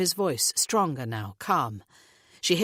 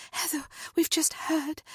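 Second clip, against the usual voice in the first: Natalie's voice; 11 semitones higher than usual. A narrator's reading. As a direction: gently break the news to a friend. Natalie voiced, consoling friend.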